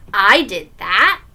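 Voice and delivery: slow, drawn-out question; little boy's intrigued question; suddenly interested. Acted. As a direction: ask it with wondering interest. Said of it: "suddenly interested".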